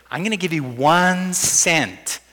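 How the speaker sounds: slow, puffed-up reveal of one cent; hammed-up grand pronouncement, slowed down; mock grand announcement. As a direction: announce a trifle like a big prize. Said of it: "Let's suppose I said to you".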